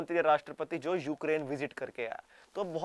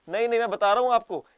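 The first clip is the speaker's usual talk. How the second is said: loud, higher mock scolding; 4 semitones higher, 6 dB louder than usual. Japan pretending to scold Russia, loud mock reproach. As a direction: wag a finger, half-hearted. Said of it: "बोल रहे हो".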